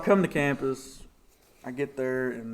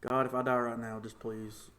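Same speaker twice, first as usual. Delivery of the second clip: exhausted prayer; 3 semitones lower, 8 dB quieter than usual. Retold or imitated.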